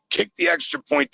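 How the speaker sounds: high exasperated command; as if yelling at the coach; exasperated demand. Real, not acted. Caller venting at the coaching, high exasperated.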